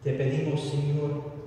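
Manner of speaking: ordinary talk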